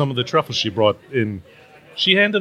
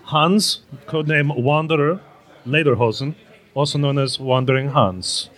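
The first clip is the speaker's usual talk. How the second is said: fake German accent. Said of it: "working on my Esmeraldan accent".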